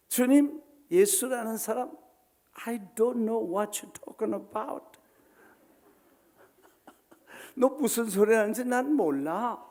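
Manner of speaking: Peter's loud, high denial; Peter denying. Acted. Peter insisting he never knew him, loud. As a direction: brush off the accuser, high and loud.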